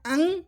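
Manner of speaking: "अंग" with a nasal ending; nasal anusvara. Shown as a demonstration. Teacher showing the first ayogvah sound, nasal "अंग". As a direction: close "अंग" into a nasal hum. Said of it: "पहला होता है".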